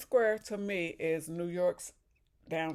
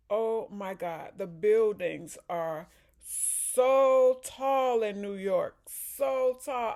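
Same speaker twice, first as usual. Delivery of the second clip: amazed; 3 semitones higher, 7 dB louder, slower than usual. Real, not acted. Amazed at tall buildings.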